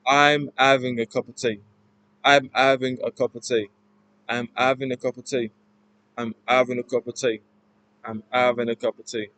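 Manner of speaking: Cockney, dropping the H in "having"; lightly done Cockney, "tea" opened to tay; Cockney accent. Shown as a demonstration. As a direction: practise a Cockney accent line. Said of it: "talking in this accent".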